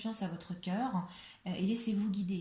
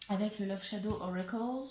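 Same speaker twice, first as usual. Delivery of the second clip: says Love Shadow Oracles in a proud English accent; Love Shadow Oracles with a show-off English lilt; a touch of put-on English accent. Shown as a demonstration. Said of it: "Vous avez vu ce bel accent anglais".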